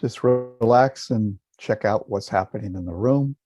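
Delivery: calm, unhurried meditation guidance with long silences; guided meditation. Real, not acted. Teacher guiding listeners to relax and feel a smile, calm meditation voice. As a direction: lead them gently, leaving space after each instruction.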